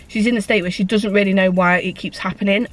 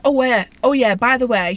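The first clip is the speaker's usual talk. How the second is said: higher, mildly raised mock call; retold shout back; 3 semitones higher than usual. Friend retaliating as she walks off, mock shouting back. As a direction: toss it back as an imitated shout. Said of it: "she shouts back".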